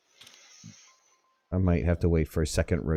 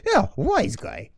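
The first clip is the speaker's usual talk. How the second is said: high, slow teasing jab; 11 semitones higher, slower than usual. Real, not acted. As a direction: rib him with a grin. Teasing a joking teammate.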